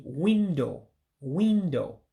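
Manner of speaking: teacher showing window with an Igbo accent. Shown as a demonstration. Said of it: "you say it with an accent".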